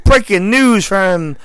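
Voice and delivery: slow, announcing news anchor read; mock news anchor. Joking with friends, a slow hammed-up news anchor announcement. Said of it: "thank God you're not a news anchor".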